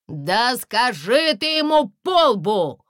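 loud, fed-up retort from the woods; exasperated outburst. A narrator's reading. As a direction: lose patience and snap back. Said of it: "не выдержал голос из леса".

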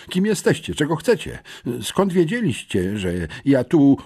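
high-pitched, astonished questioning; startled. A narrator's reading. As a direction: fire questions in surprise, then break off. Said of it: "urwała chyba bardziej zaskoczona niż przerażona".

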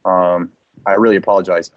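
low, soothing manager voice; apologetic manager. Acted. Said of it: "call back as your manager and apologize".

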